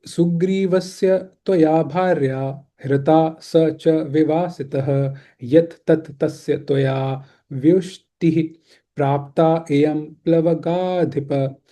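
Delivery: slow, measured scripture reading; Sanskrit verse recitation. Acted. Teacher reciting a Ramayana shloka to an online class, slow recitation. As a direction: recite the shloka slowly, syllable by syllable.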